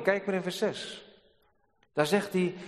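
ordinary talk

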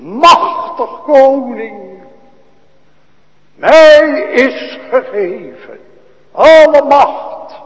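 loud, slow, soaring pulpit cry; preaching at full force. Acted. Preacher proclaiming Christ's power to the congregation, loud and slow. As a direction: proclaim it to the whole church.

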